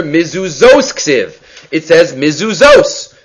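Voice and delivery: "mizuzos" drawn out slowly, syllable by syllable; slow, pointed "mizuzos"; stress on mizuzos. Shown as a demonstration. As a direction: stretch out "mizuzos" to show the written word. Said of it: "that's how it is written".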